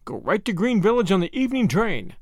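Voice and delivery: ordinary delivery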